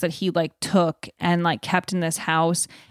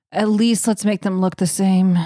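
weary; 4 dB louder than usual. Retold or imitated. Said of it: "that's exactly the energy he has".

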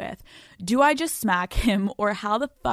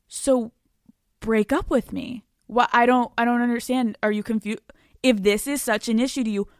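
calm patronizing. Shown as a demonstration. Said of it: "kinda be patronizing in a way".

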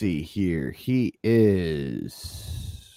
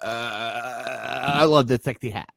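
imitating stalled speaker. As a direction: mimic a wrestler stuck for words. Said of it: "he started on the mic, and he's, uh".

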